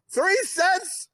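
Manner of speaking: high, questioning disbelief, retold; incredulous wife. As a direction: imitate a wife who can't believe it. Wife's incredulous reply, retold.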